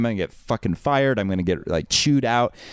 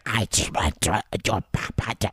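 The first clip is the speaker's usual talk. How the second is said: put-on croaked, voiceless Armenian-accented gibberish; laryngitic Armenian accent. Clerk repeating herself to a baffled customer, laryngitic Armenian accent. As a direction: imitate a lost voice mangling an Armenian accent. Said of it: "This woman with, like, laryngitis, like, accent alone".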